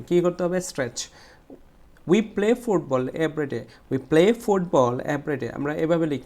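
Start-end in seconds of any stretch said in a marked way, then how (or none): 2.1-5.5 slow reading with "football" pushed; stress on "football". Shown as a demonstration. Teacher modelling the sentence, stress on "football". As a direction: give "football" extra force. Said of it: "এটাকে একটু জোরে বলবো".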